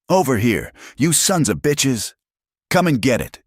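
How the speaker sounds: bait them from across the canyon; taunting shout. Acted. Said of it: "Caleb shouted at the approaching riders".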